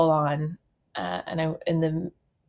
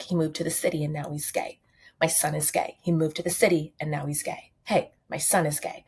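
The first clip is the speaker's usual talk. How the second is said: put-on Long Island accent. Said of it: "as his Long Island mother".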